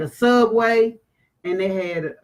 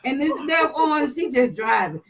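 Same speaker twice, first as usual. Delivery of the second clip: high, strained, half-crying complaint; a pitched-up wail of disbelief; panicked retelling; 5 semitones higher than usual. Retold or imitated. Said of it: "terrified on the ATV retelling".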